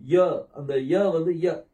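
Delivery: ய cut very short; half-length vowel. Shown as a demonstration. Teacher showing students the two-dot vowel, half-length vowel. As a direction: say ய with only half a beat of vowel. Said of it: "பாதி மாத்திரையா உச்சரிக்கணும்".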